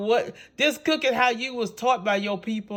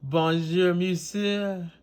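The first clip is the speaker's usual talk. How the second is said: put-on playful French greetings in a Louisiana accent. Chef greets viewers in French, playfully. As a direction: greet everyone in mock French. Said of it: "Why I'm talking some French?".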